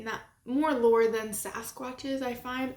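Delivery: talking through a brain freeze; words strained by a brain freeze. Real, not acted. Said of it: "Oh, I got a brain freeze".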